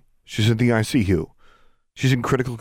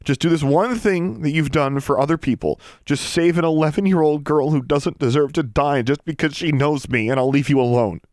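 high, loud, impassioned begging; desperate pleading; 9 semitones higher, 4 dB louder than usual. Acted. Girl begging her estranged sister to save a friend, desperate pleading. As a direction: plead urgently, pitched high and pushed hard.

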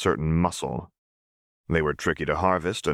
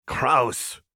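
put-on higher, disgusted little girl; girl's exclamation; 8 semitones higher than usual. A narrator's reading. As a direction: squeal your disgust. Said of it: "Powder exclaimed".

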